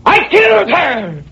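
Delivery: high, slow, stressing killed; wild-eyed cry of confession; a high manic howl of guilt. Acted.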